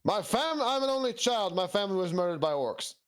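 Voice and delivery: high, earnest tragic knight; crusader voice. Acted. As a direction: declare it like a grieving crusader. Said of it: "throw my Crusader voice out there".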